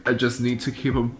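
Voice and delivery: tearful, choked-up confession; real crying, voice thick with tears; snotty crying. Real, not acted. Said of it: "Sorry, I have such an ugly crying face".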